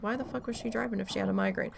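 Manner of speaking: fast, exasperated question; quick indignant question; incredulous rant. Retold or imitated. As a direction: rattle off the disbelief. Incredulous at the aunt.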